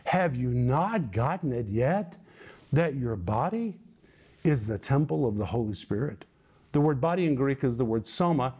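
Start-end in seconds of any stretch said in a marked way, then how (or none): 0.0-6.2 very slow, drawn-out questions; preacher voicing Paul pressing the Corinthians; emphatic rebuke. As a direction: stretch every word to make them get it. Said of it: "Paul is literally saying".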